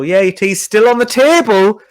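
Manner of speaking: passive-aggressive mum. Retold or imitated. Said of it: "And she'd go".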